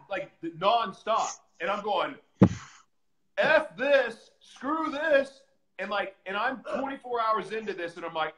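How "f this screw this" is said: high, loud exasperation; fed-up outburst. Retold or imitated. Inmate fed up with nonstop screaming, exasperated outburst. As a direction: burst out like you've had enough.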